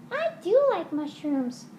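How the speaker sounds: "do" punched in a squeaky puppet voice; high puppet voice. Acted. Other puppet.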